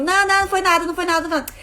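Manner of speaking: high, loud brushing it off; mock a grown-up waving away a child's fall; dismissive adult. Adult to a child who fell, dismissive high voice.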